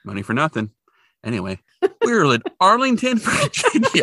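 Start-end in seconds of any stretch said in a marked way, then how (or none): 2.0-4.0 laughing, squeaky high announcement of the town; silly funny voice. Pretend. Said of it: "Oh, that was good".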